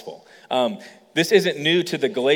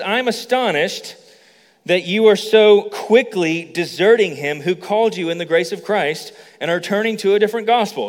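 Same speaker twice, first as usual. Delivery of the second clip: Paul's letter voiced with irritation; upset Paul; 4 semitones higher than usual. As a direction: read it as an irritated apostle. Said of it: "how upset Paul is".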